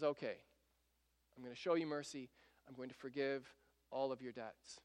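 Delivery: the king softly forgives the debt; gentle mercy. Retold or imitated. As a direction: grant pardon gently like a merciful king. King grants mercy to debtor.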